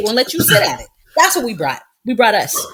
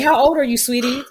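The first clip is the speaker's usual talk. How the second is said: put-on sweet question to a kid; 4 semitones higher than usual. Mimicking adult asking child.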